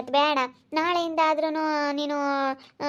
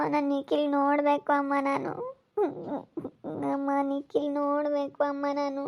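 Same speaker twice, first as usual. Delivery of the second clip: soft, tearful plea for him to come; begging quietly through tears; tearful pleading; 5 dB quieter than usual. Acted. Daughter begging her mother to see Nikhil, softly tearful. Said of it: "ಸುಮ್ನಿರು, ಅಳು ಬೇಡ".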